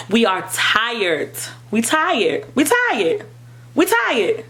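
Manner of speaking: rising insistence, real weariness; building emphasis. Real, not acted. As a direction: climb with every "We tired.". Repeating in mounting exhaustion.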